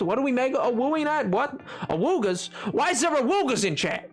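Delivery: bewildered, lilting query; mildly incredulous reaction; baffled question. Pretend. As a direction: ask it in puzzled disbelief. First puzzled reaction to chat.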